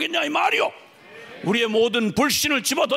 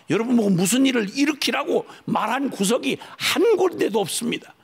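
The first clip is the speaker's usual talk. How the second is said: ordinary talk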